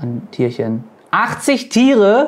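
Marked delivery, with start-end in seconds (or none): 1.1-2.3 astonished disbelief, pitch rising very high. Planning a cow barn and checking how many animals fit, astonished.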